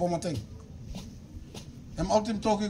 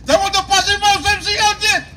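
higher and louder retelling; loud repeat; 9 semitones higher, 10 dB louder than usual. Shown as a demonstration. Pastor retelling Jesus passing by, now loud. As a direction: raise it up the second time round. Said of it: "repeats same words louder".

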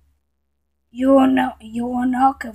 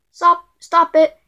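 louder, higher, slow order to stop; mock scolding; 4 semitones higher, 6 dB louder than usual. Scolding someone who will not listen, mock stern. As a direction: play a fed-up telling-off.

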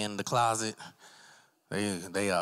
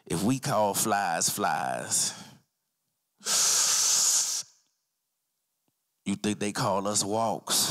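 very slow, drawn-out pondering; stoned philosopher; 3 semitones lower, slower than usual. Acted. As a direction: ponder it slowly, like deep stoned wisdom. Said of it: "I be saying some real shit".

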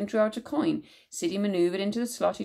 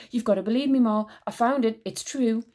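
pleading; 3 semitones higher, 4 dB louder than usual. Acted. Siddy pleading with Ma.

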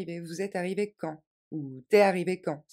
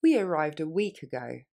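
quick natural speed; faster; 3 semitones lower than usual. Shown as a demonstration. Teacher modelling for students, quick natural. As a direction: run it together like a native. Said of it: "Et plus rapidement".

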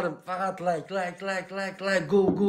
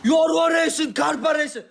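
drawn-out, raised team shout; hype shout; 4 semitones higher than usual. Real, not acted. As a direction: call it out high and slow like a chant. Hyping a live battle team.

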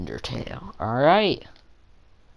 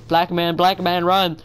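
mock panic yell; 7 semitones higher, 8 dB louder, slower than usual. Acted panic call.

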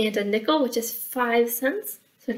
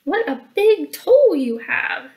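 Little Red Riding Hood; 6 semitones higher, 5 dB louder than usual. Acted. Little Red facing the big toll, high sighing dismay. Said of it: "sighed Little Red Riding Hood".

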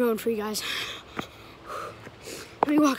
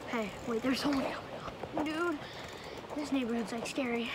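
hushed; 7 dB quieter than usual. Real, not acted. Sneaking past a stranger.

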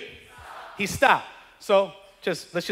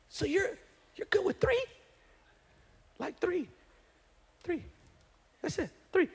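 higher, softer disbelief at "three"; incredulous; 7 semitones higher, 12 dB quieter than usual. Retold or imitated. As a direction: lean on "three" as if it's laughable. Prophet mocks the king's three.

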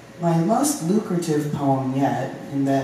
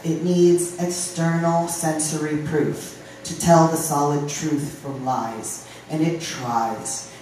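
deliberate spoken-word cadence; poem reading; 2 semitones higher than usual. Acted. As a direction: recite firmly, leaning on key words and stretching some phrases. Reads announced poem.

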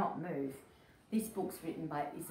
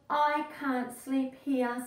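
higher, slow lightly voiced ladybird; whiny ladybird; 6 semitones higher, 5 dB louder, slower than usual. Ladybird on the crocodile's tail, higher and slow. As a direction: drag out the complaint. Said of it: "said the lazy ladybird".

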